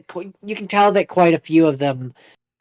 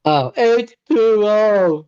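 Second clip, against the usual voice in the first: slow, lisping Waterboy impression; 5 semitones higher, 3 dB louder, much slower than usual. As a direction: drag it out like Bobby Boucher.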